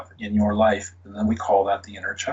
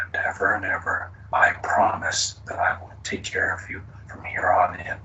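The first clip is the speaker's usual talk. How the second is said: tender whisper; 2 semitones lower, 3 dB quieter than usual. Acted. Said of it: "I want you to whisper".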